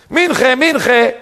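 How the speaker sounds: high call to afternoon prayer; imitated shout. Man in the doorway gathering a prayer quorum, high calling shout. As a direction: call it out across the synagogue. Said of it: "צועק".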